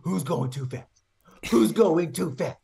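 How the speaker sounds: put-on high cooing cop baby talk; sing-song high baby voice. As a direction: tease like scolding a toddler, slow. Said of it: "you get pulled over by a cop".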